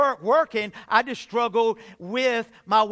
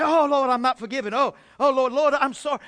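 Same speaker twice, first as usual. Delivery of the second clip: raised, pleading cry to the Lord; anguished prayer; 3 semitones higher, 5 dB louder than usual. Retold or imitated. Preacher reliving his desperate night prayer, raised and pleading. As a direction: beg the Lord out loud in distress.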